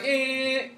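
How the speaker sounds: high held tone of an oncoming train; approaching Doppler tone. Shown as a demonstration. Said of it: "So up here it sounds like".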